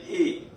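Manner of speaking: "A" as closed French é; bright teacher's demo of "A" as "ay"; full-smile A. Shown as a demonstration. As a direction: say "A" as "ay" through a wide smile. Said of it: "Full smile".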